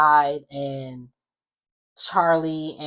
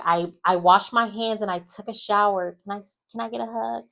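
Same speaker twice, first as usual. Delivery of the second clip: higher-pitched mock plea; pleading imitation; 6 semitones higher than usual. The speaker asking Riley for a hug, high mock pleading. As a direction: imitate someone pleading, voice lifted.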